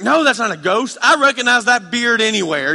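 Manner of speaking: high, loud eager cry of discovery; excited recognition. Retold or imitated. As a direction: call it out like you've spotted a friend. Peter recognizing Jesus on water.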